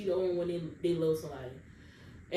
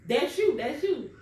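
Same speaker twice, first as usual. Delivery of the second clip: raised, accusing mother's voice; mad mom; 5 semitones higher, 3 dB louder, slower than usual. Retold or imitated. Mom accusing her daughter of being pregnant, mildly mock angry. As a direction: point the finger and bark it out. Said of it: "Y'all, my mama was mad".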